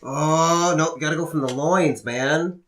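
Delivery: lightly voiced hype-man coaching; mock Big E. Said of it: "he started to do".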